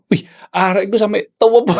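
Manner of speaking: laughing. Real, not acted. Laughing while telling.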